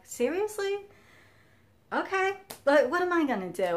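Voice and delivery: high, loud retold disbelief; incredulous. Telling viewers her reaction to the airport pat-down, incredulous.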